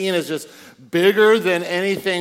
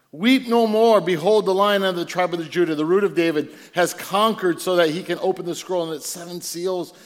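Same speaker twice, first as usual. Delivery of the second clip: triumphant proclamation. Acted. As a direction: lift it up like good news. Proclaims elder's words loudly.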